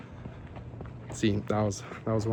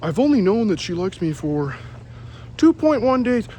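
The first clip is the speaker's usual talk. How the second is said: mock coworker voice; 4 semitones higher than usual. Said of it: "He's like".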